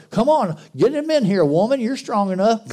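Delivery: a hint of a lazy husband ordering his wife in; mock lazy husband. Husband sending his wife in with groceries, mock bossy.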